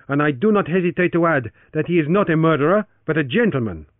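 high, loud accusing voice; Torres, accusing. Acted. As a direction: accuse him loudly and firmly.

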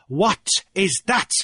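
high, pointed question; demanding. A narrator's reading. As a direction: demand an answer from an opponent. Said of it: "he demanded".

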